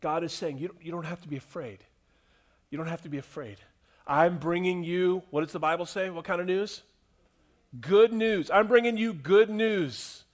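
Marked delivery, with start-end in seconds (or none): 0.6-5.2 softer, tender reassurance; God gently calming frightened shepherds, soft and tender; gentle reassurance. Retold or imitated. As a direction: soothe frightened shepherds softly. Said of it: "He's not scolding them".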